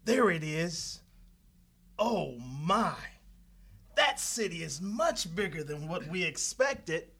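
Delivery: low, soft stunned murmur; awed hush. Acted. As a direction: gape at the city quietly. Spies awed by city.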